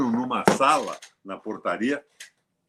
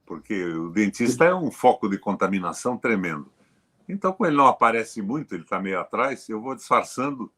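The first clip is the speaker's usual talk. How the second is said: talking with mouth closed. Real, not acted. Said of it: "falando com a boca fechada".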